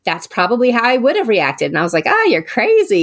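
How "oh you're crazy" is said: high-pitched retold scoffing; mock dismissal. Daughter to mom about screaming fans, mock dismissive. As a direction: brush mom off in a much higher voice. Mocking her mom's fandom, retold.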